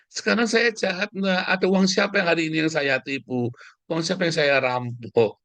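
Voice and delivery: indignant challenge, starting high and easing down; affronted rhetorical questioning. Real, not acted. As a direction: demand proof from the accusers. Challenges accusers to show wrongdoing.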